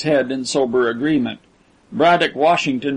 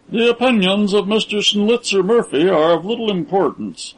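cold dismissive cut-in, a little higher; coldly; 5 semitones higher than usual. A narrator's reading. Braddock cutting off John's gossip, coldly dismissive. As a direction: interrupt him with icy contempt. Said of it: "interrupted Braddock Washington coldly".

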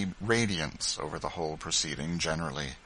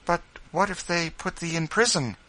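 put-on young boy; 10 semitones higher, 3 dB louder than usual. Boy questions his father.

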